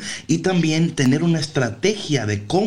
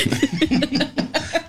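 high laugh; 13 semitones higher than usual. Real, not acted. Laughs after sign-off.

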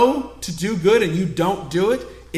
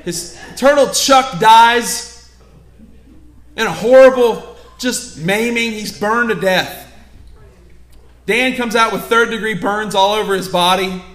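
loud, high, dramatic sermon delivery; preaching at full force; 4 semitones higher, 8 dB louder than usual. Acted. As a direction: drive the burning-house image home to the congregation. Preaching the house-fire story hard.

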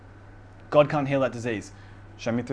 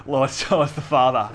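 laughing; 5 dB louder than usual. Retold or imitated. Mocking Philip's question, laughing.

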